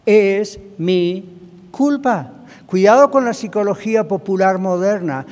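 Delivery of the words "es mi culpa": loud preached confession; emphatic confession. Shown as a demonstration. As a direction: declare "Es mi culpa" with conviction. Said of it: "aprender a confesar".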